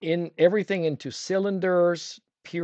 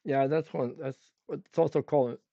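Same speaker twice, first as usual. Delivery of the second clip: talking around a paintbrush; mouth full. Real, not acted. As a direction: brush clenched in teeth. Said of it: "speaking with a brush in my mouth".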